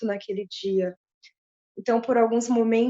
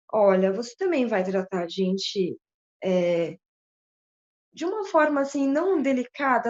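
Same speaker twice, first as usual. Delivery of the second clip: tearful plea. Retold or imitated.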